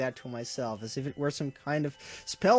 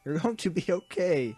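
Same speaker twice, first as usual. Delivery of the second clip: raised, higher insistence; yelling back; 5 semitones higher than usual. A narrator's reading. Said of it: "I yelled back".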